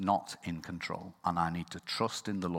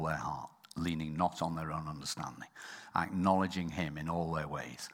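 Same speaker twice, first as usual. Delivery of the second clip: whispered; 4 semitones lower, 7 dB quieter than usual. Real, not acted. Quiet blessing.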